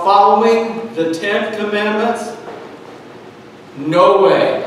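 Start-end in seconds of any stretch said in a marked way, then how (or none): 3.8-4.6 firm, emphatic NO WAY. Real, not acted. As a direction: land "No way" as a weighty, final answer. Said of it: "I say emphatically".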